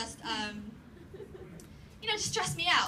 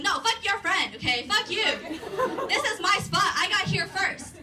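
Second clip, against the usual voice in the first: heated yelling; 3 semitones higher than usual. Retold or imitated. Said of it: "I'm still yelling in Chinglish".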